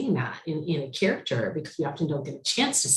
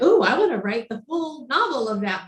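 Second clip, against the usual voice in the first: mock excited thought; 9 semitones higher than usual. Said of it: "I'm like".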